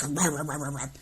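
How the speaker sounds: babbling mock ranting; a hint of a raving babble; mock rant noise. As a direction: rah rah like a raving nut. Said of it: "He sounded like Cowpote".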